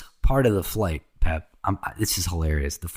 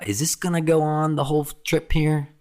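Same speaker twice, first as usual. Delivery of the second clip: mock annoyed passenger; 7 semitones higher than usual. Annoyed stranger on plane, retold.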